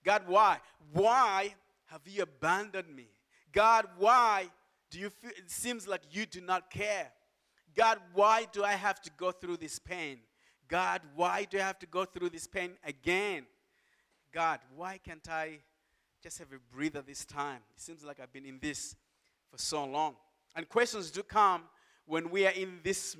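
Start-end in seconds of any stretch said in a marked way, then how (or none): 0.0-13.5 raised-voice plea to God; pleading question. Acted. Sufferers asking God why in pain, pleading. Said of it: "we ask the question". 14.3-20.2 softer, worn-down appeal; weary plea. Acted. Sufferer asking God for a breather, weary plea. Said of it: "we ask the question".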